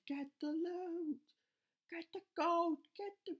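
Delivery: high, loud, slow order; rallying shout; urgent command. Real, not acted. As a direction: yell at the troops to grab the gold. Commanding troops.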